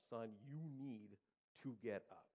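slow, spaced-out imitation of a frustrated dad; lightly voiced firm father's order; mounting frustration. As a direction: stretch each word as patience runs out. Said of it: "that frustration in his voice is getting louder".

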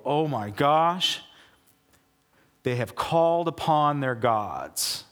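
slowed, hushed dread; slow awed gasp. Retold or imitated. Philistines hearing the Israelite camp, slow hushed dread. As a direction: let the fear sink in slowly. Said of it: "And they go".

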